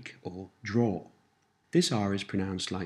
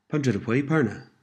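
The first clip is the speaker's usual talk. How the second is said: slightly quicker model phrase; a little faster; 4 semitones higher, 3 dB louder than usual. Shown as a demonstration. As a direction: run the words together a little more briskly. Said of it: "And a little faster".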